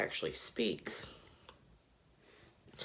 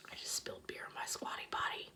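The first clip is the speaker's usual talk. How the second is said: whispering; 6 dB quieter than usual. Real, not acted. Drunk aside after spill.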